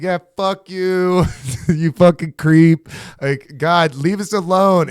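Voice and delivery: slow, drawn-out mock insult; mock telling off. Young mom at the pier snapping at a shouting man, mock angry. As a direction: imitate mom brushing off a creep. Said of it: "She's like".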